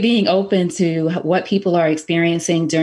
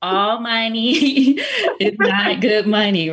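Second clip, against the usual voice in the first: slow, high, each word stressed; emphatic repeat; 6 semitones higher, slower than usual. Real, not acted. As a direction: lay it down slowly, laughing. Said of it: "Say it again for the people".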